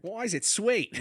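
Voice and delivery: playful Australian imitation; Australian accent. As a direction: ask it in a put-on Australian accent, voice lifted. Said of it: "throw out random accents at random times".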